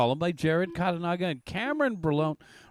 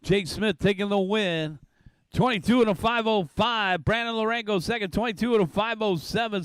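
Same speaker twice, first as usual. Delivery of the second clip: raised, lively finish-line call; excited race call; 2 semitones higher than usual. Real, not acted. Calls finish and results live.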